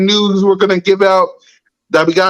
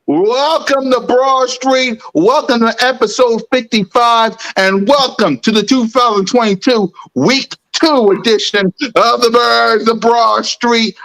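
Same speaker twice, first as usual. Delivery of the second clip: grand entrance announcement; 3 semitones higher than usual. Acted. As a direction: hype show announcer. Show intro as announcer.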